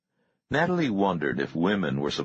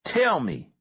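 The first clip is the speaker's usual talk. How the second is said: a hint of a leader snapping at a boy; snapped demand; 12 semitones higher than usual. A narrator's reading. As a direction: snap the order as he grabs him. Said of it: "snapped Marvin".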